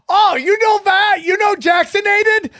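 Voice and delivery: put-on high, shouted broken-English Asian accent; imitated Asian accent. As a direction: yell it like the excited shop lady. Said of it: "it's literally her accent".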